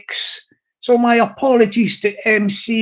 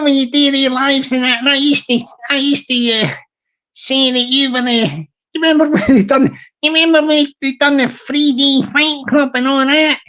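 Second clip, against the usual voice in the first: lightly pitched-up Glasgow put-on; Glaswegian accent; 2 semitones higher than usual. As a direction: reminisce as a chatty Glaswegian.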